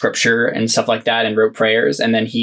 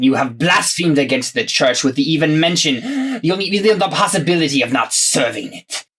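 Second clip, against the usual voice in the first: lofty, rising scold that slows at the end; pompous shrill tyrant; 2 semitones higher than usual. Acted. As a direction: lecture him like a self-important tyrant. Inquisitor scolds prisoner.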